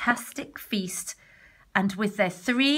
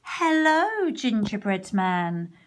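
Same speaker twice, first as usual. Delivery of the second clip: grinning fox; slower than usual. Acted. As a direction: greet him with a cunning grin. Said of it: "grinned the fox".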